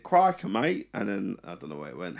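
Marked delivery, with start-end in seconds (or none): 0.0-0.9 mock Australian accent. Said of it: "It started Australia and then it".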